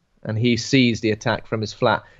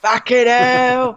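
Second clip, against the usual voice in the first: slow, drawn-out exasperated high outcry; annoyed outburst; 11 semitones higher, 5 dB louder, much slower than usual. Retold or imitated. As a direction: groan it out, pulled away from the game. Gamer interrupted by vampire.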